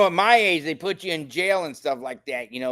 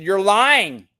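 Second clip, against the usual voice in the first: raised, higher voice, calling him a liar; angry accusation; 4 semitones higher than usual. Retold or imitated. Man retelling how he scolded the police officer, heated and raised. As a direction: lay into the officer, voice climbing. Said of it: "I said".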